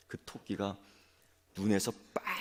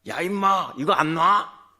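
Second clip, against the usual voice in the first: much higher and louder, a furious bellow; fierce shout; 9 semitones higher, 15 dB louder than usual. Acted. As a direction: roar it to scare the tiger off. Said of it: "이렇게 큰 소리 치는 거예요". (호랑이에게 겁주려는 토끼의 고함)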